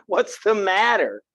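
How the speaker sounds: a slow, laughing, gentle ask; caring check-in. Shown as a demonstration. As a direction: ask like a friend who really wants to know. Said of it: "you don't know till you ask".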